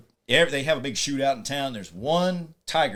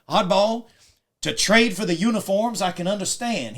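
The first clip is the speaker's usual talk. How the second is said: raised, loud retold objection; exasperated protest; 7 semitones higher, 5 dB louder than usual. Negative mechanic Moriarty reproaching Oddball, exasperated.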